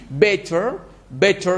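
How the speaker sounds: "better" in British accent with a crisp t; British-accent "better", ending in an open vowel. Shown as a demonstration. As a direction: say "better" the British way, t sounded, final r dropped. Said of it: "c'est l'accent britannique".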